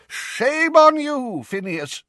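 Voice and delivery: high, loud, slow rebuke; scolding. A narrator's reading. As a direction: scold him with outrage. Portraits protest loudly.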